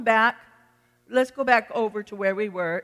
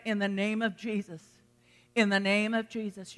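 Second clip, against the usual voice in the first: soft invocation; 6 dB quieter than usual. Shown as a demonstration. Models what to say against thoughts.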